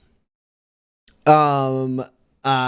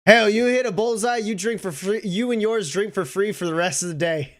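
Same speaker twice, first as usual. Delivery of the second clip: bartender; 4 semitones higher than usual. Acted. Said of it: "and goes".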